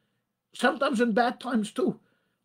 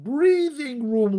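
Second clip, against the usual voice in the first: slow emphasis; 3 semitones higher, much slower than usual. Shown as a demonstration. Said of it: "give them breathing room".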